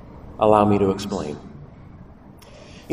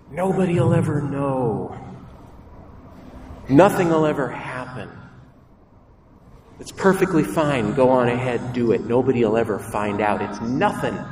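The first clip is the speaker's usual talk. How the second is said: tempting voice. Acted. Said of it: "The first voice goes like this".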